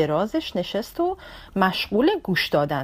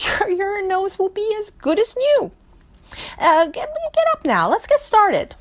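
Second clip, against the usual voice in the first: cheerful ladybug; 2 semitones higher than usual. Acted. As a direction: reassure the elephant brightly. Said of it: "laughed again ... responded and said". (بابا کفشدوز با شادی و دلگرمی)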